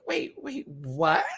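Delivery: high "wait, wait" rising to "what?"; retold disbelief. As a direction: stop short in confusion. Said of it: "I was like".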